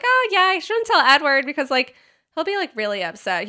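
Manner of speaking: high mock girlish voice; mock Bella voice. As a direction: play it fake-casual, like a bad liar. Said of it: "she's like".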